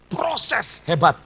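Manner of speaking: very slow, stretched words; slow, weighty emphasis; drawn-out emphasis. Real, not acted. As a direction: draw each word out for weight. Stressing the hard process.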